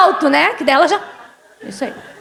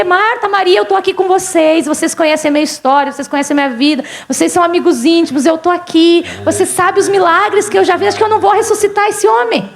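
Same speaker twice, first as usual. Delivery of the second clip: insistent run, climbing higher at the end; acted exasperated pleading; 3 semitones higher than usual. Jesus reasons with Martha and Mary, exasperated pleading. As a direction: pile up the reminders with mounting insistence.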